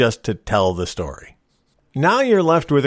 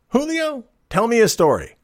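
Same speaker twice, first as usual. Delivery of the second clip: high called-out name, then the order; a pirate captain summoning his mate; calling Julio from across the deck; 10 semitones higher than usual. Acted. Captain calls to first mate.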